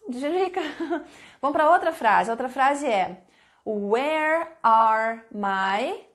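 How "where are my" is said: "Where are my" stretched out very slowly with a rising end; slow teacher prompt with a rise; slow dictation. Shown as a demonstration. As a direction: draw out each word for students. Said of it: "pergunta que vocês vão fazer".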